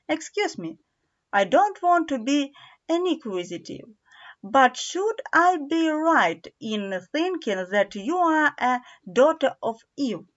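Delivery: a timid, courteous faun asking carefully; a hint of a shy faun voice; polite faun.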